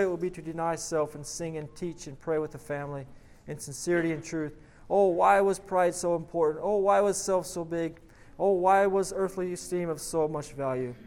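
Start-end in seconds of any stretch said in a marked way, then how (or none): 4.9-10.9 higher, louder cry of regret; dramatic read-aloud regret; anguished lament. A narrator's reading. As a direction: lament it with raised voice, as narrator.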